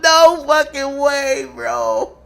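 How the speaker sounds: high, loud words breaking into laughter; cracking up while shouting about what you see; real belly laugh pushing through the words; helpless laughter. Real, not acted. Streamer cracking up at a clip.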